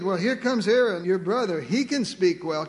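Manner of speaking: lightly voiced sarcastic God; a touch of irony, at normal pace; mild sarcasm. God tells Moses about his brother Aaron, mildly sarcastic. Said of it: "Can you see just a little sarcasm in God's voice?".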